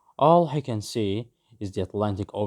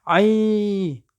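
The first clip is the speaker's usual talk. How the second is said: sudden yelp; 10 semitones higher, 4 dB louder than usual. A narrator's reading. Man hurt by the bird.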